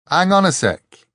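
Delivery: high, loud flustered interruption; babbling. A narrator's reading. Richard grasps that the ordeal is his, babbling. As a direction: break in, panicky and heedless. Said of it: "He was babbling".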